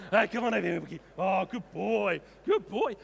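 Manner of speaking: high, loud call to the dog; loud praise. Real, not acted.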